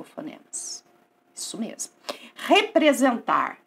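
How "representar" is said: "Representar" lento, sílaba por sílaba; palavra articulada devagar. Shown as a demonstration. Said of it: "Olha o que que tá acontecendo aqui". ("Representar" bem pausado)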